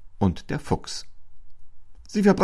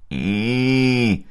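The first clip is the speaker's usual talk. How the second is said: disgusted ih; 3 semitones higher, 3 dB louder than usual. A narrator's reading. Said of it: "ekelte sich der Fuchs".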